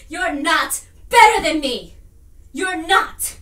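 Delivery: loud, emphatic rebuff; forceful, indignant put-down; angry denial. Acted. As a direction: hit the denial hard. Acted quarrel, forceful denial.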